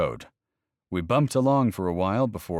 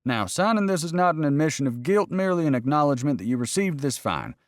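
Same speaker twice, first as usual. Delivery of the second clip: officious warden reading terms; 6 semitones higher than usual. Acted. Narrator voices the game warden.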